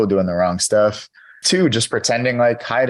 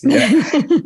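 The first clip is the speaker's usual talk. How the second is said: squeaky you know; 4 dB louder than usual. Acted. Joking about going rigid.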